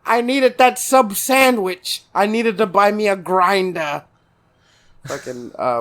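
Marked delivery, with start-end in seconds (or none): 0.1-4.0 put-on New York accent. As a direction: plead like a hammed-up New Yorker. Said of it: "what's a New York food".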